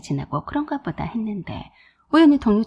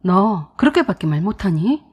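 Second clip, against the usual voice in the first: a louder, mildly angry retold retort; furious outburst; 2 semitones lower, 5 dB louder than usual. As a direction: snap back as the outraged boyfriend. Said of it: "남친 노발대발했어요". (화난 남친이 따지듯, 조금 큰 목소리로)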